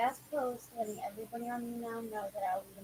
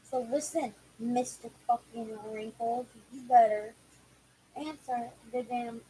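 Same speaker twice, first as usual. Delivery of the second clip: angry; 6 dB louder, slower than usual. Real, not acted. Scolding the absent caller.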